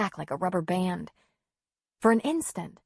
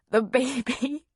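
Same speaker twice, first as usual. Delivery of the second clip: rising, high anguished wail; crying out; 7 semitones higher, slower than usual. A narrator's reading. Injured pregnant mother fearing for baby, anguished cry. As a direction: cry it out, climbing higher and slowing. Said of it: "she cried".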